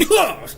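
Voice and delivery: high burst of a knocked-back gasp; imitated recoil noise. Game master showing a player being pushed back, sudden recoil noise. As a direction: voice the jolt of being thrown back.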